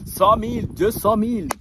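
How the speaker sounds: mock excited counting shout; calling out. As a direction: shout the sums through the wall. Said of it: "crier comme ça".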